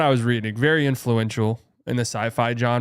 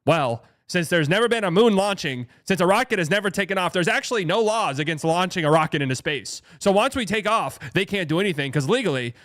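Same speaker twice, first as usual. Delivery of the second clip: put-on higher, earnest old-movie announcer voice; 1950s tv broadcast; 4 semitones higher than usual. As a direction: play it dead serious, fifties film style. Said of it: "Voice is like".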